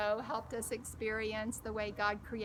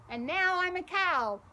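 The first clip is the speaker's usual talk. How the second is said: put-on excited child; 7 semitones higher, 5 dB louder than usual. Child playing animals.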